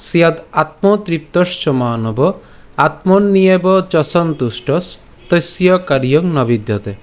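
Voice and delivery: slow, measured verse recitation; pure Sanskrit recitation. Shown as a demonstration. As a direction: recite the shloka slowly, phrase by phrase. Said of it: "শুদ্ধ সংস্কৃত উচ্চারণে আলোচনা করব".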